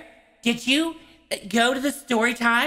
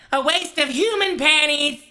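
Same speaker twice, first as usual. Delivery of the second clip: mock angry outburst; 3 semitones higher than usual. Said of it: "just so angry I can't hardly even talk".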